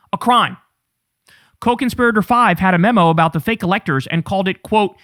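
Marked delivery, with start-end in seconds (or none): 0.1-0.6 "A crime" repeated as a whisper. Acted. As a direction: breathe "A crime" as a hushed whisper. Emphatic repeat.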